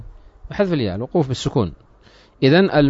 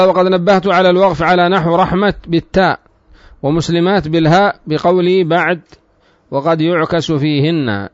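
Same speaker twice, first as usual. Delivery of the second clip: measured, slightly raised reading voice; formal text reading; 3 semitones higher, 4 dB louder, slower than usual. Real, not acted. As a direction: read the text out deliberately, drawing out phrase ends. Reads the book's text aloud. (قراءة متن بصوت متأنٍّ)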